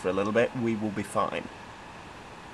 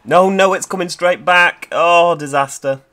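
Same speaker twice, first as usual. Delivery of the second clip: alarmed; 6 semitones higher, 10 dB louder than usual. Real, not acted. Train coming back, alarm.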